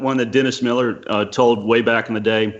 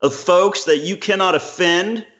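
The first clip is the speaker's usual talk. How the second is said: higher, slow, weighty quoting voice; slow, raised voice quoting Cleese to his friend; 6 semitones higher, slower than usual. Retold or imitated. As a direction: lay out Cleese's words slowly and gravely. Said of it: "and he, he said".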